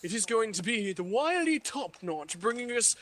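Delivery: lightly put-on British lineup read; a hint of a grand British caster; mock British announcer. Reading the Invidious lineup, in a light mock British accent. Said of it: "Your British accent".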